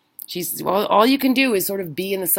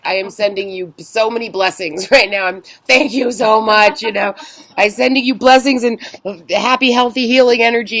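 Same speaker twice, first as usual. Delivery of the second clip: gushing thanks; 3 semitones higher, 6 dB louder than usual. Retold or imitated. Gushing thanks to refund agent.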